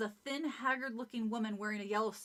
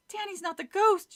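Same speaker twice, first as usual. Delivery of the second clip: dramatic realization; 8 semitones higher, 6 dB louder than usual. Acted. Hannah realizes she is ghost.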